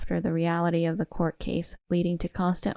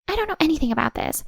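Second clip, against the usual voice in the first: hysterical denial; 7 semitones higher than usual. Acted. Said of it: "deny everything hysterically".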